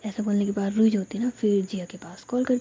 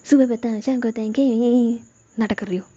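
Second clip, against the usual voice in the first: mocking imitation; 5 dB louder than usual. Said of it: "और ऐसे बोलती है".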